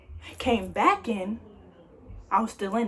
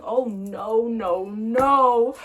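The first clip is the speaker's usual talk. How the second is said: scared protest; 4 dB louder, much slower than usual. Retold or imitated. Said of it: "I was so mad and scared".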